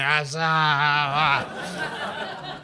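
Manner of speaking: mock drawn-out groans; wordless mock moaning; drunken heap groaning. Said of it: "this heap kinda going".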